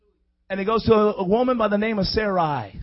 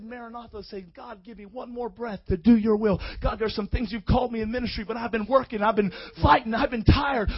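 very soft plea to God; hushed weary prayer; 7 dB quieter than usual. Acted. Tired minister asking God for one more breath, softly. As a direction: pray it quietly, as if worn out.

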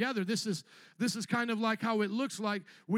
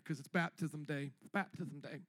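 mock hurry-up plea; 7 semitones lower, 8 dB quieter than usual. Mimicking hurried congregant.

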